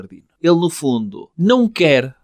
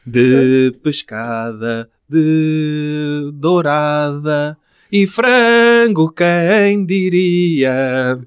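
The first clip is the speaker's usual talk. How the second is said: mock ad voice; 2 semitones lower, much slower than usual. Mock ad slogan tag line.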